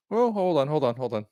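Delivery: sudden high "hold on"; surprised. Real, not acted. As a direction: stop yourself mid-thought, startled. Sudden realization while tasting.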